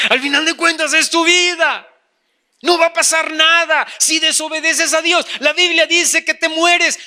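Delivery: emphatic tempter. Acted. Devil dismissing the Bible's warning, insistent.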